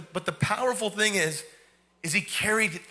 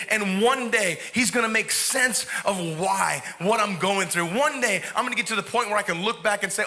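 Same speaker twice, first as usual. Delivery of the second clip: full-force preaching. Acted. Preacher voicing David's vow to the congregation, full force. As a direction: preach it hard, building conviction.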